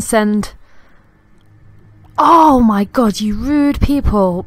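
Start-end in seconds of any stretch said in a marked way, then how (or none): 2.2-4.4 louder, slow indignant outburst; outraged exclamation. Real, not acted. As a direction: call out the rude neighbours. Outraged at noisy neighbours.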